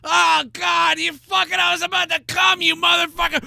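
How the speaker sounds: high, frustrated shouting; interrupted man. Pretend. Man cursing the bystander, high frustrated shout. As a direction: yell in frustration at being interrupted.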